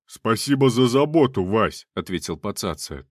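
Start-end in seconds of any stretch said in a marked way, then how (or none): 0.1-1.9 loud, sarcastic gratitude while running; ironic thanks. A narrator's reading. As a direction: thank him with biting irony. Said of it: "что это была ирония".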